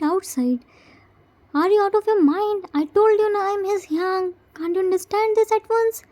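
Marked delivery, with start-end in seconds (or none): 1.5-6.0 shouting at nurse. Acted. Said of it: "Why are you shouting on her?".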